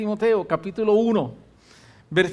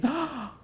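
startled gasp; 8 semitones higher, 6 dB quieter than usual. Retold or imitated. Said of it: "yo dije".

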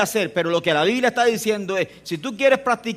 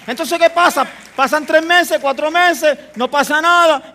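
predicación enfática; 9 semitones higher, 10 dB louder than usual. Real, not acted.

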